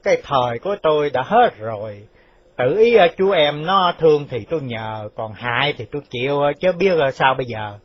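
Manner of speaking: mildly resigned, weary words; sighing resignation. Acted. Quan phủ surrendering his fate to Chú Tàu, resigned. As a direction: give in with a touch of defeat. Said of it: "ngồi thở dài rồi biểu bảo rằng".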